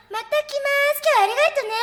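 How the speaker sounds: high chirpy Japanese goodbye. Retold or imitated. Imitating the noisy customer leaving the shop, shrill and sing-song. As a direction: ham up her shrill farewell.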